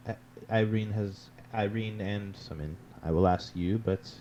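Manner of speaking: lightly voiced, hesitant investigator; a hint of a formal character voice; polite questioning character. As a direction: question courteously, feeling for the words.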